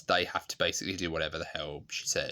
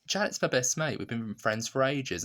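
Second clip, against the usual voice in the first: fond best friend; 6 semitones higher than usual. Retold or imitated. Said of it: "she also kind of thinks".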